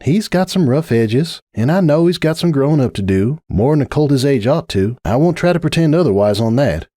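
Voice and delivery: a tired sigh of a friend, lightly voiced; Applejack. Applejack pleading with Rainbow, lightly voiced patient mare.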